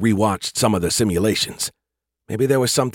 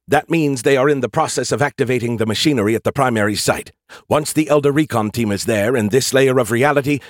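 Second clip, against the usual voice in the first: urgent AI voice; 3 semitones higher than usual. Acted. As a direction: press the urgency, a shade higher. AI character Skippy speaking.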